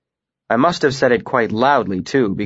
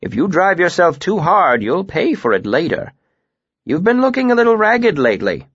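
higher-pitched, admonishing teacher; Master Dahl; 8 semitones higher than usual. Acted. Master warning a student about overwork, higher-pitched admonishing. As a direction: caution a pupil in a raised master's voice.

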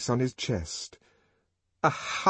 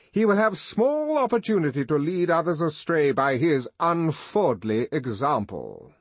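high, loud, ringing formal indictment; pompous denunciation; 10 semitones higher, 5 dB louder than usual. Acted. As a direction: pronounce sentence before an assembly. Director publicly denounces Bernard.

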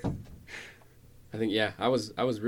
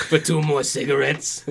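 upselling cashier; 3 semitones higher, 6 dB louder than usual. Pretend. Mock cashier upsell continued.

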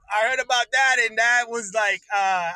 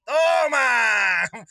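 shouted exclamation; 5 dB louder than usual. Real, not acted. Ranting alone on camera, he shouts out in disbelief. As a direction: blurt it out loud. Reacting to the news.

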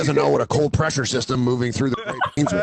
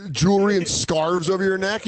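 ordinary talk

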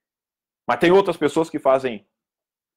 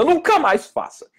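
nunca mais faça pushed much higher and slow, every word weighted; stern high warning to the audience; emphatic warning; 4 dB louder, slower than usual. Real, not acted. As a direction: drive home never do it again.

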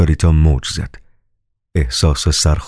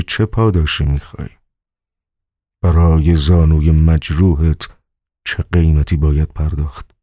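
softened tone. A narrator's reading. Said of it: "لحن صدایش تلطیف شده بود".

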